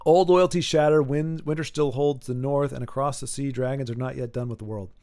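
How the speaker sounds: low, softening narration voice; dramatic read-aloud. Acted. Host reads an epic summary aloud, low narration.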